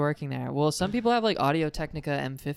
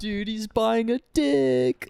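slow mock whisper-shout; 8 semitones higher, 4 dB louder, much slower than usual. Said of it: "we were all like".

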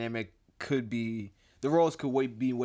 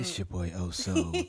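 lower, smooth late-night DJ; radio DJ voice; 5 semitones lower than usual. Pretend. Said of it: "I've got my radio voice on now".

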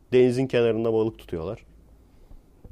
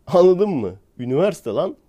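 louder and higher, fed-up rhetorical question; exasperated outburst; 6 semitones higher, 6 dB louder than usual. Real, not acted. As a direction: throw the question out loud in disbelief. Exasperated rant about graduates. (sinirli, yüksek sesle sorulan soru)

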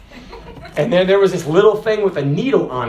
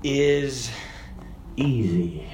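gentle quote; 5 semitones lower, 7 dB quieter, much slower than usual. Acted. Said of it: "Jesus said".

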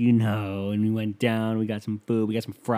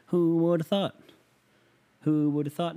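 higher, laughing through the words; laughing repeat; 7 semitones higher than usual. Shown as a demonstration. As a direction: chuckle out Who would have thought, stretching thought.

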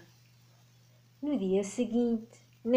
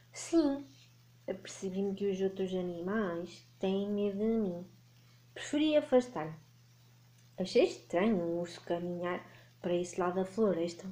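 lightly voiced lonely dragon; a hint of a gentle dragon; friendly dragon voice. Dragon answers the bear.

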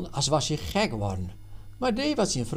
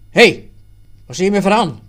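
much louder, higher, indignant; angry outburst; 6 semitones higher, 14 dB louder, faster than usual. Acted. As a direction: flare up at the accusation. Stoef flares up at Jan. (boze uitval, veel luider)

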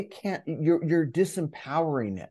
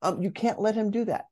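higher, nagging inner critic warning him off; an anxious inner voice pleading, higher; imposter voice; 7 semitones higher than usual. Retold or imitated. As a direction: play the fretful imposter, pitched well up. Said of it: "My imposter voice still said".

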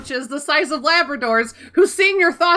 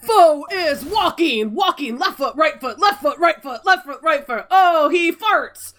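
football commentator; 5 semitones higher than usual. Pretend. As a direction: call each step like a sportscaster. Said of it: "like a football commentator".

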